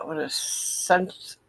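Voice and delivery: speaking without dentures; lisping with no teeth in; toothless. Real, not acted. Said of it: "I can't talk good without my teeth".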